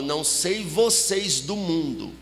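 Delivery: low-pitched, measured church-sister ultimatum; retold no-excuses summons with weighty pauses; stern summons. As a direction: lay down the law, lightly imitating her. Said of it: "olha a intimação dela".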